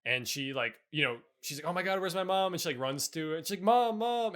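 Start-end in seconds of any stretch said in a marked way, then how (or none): 1.7-2.5 higher-pitched imitation of a worried daughter; mock alarm. Acting out frantic daughter in scene. 3.6-4.3 high, loud mock call for mother; imitated yelling. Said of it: "she's just yelling".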